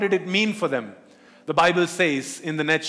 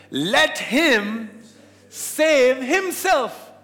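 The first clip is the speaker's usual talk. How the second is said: mocking scoff; 4 semitones higher than usual. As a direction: drag out save in mockery. Leaders scoff at Jesus.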